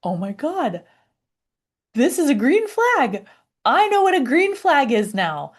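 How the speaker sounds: thrilled inner voice finding out; excited realization. Retold or imitated. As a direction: exclaim it like you finally get it. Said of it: "I started to get this feeling inside, like".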